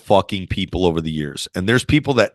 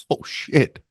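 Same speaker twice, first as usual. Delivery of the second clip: whispered oh shit; 7 semitones higher than usual. Retold or imitated. Retold dismay, whispered.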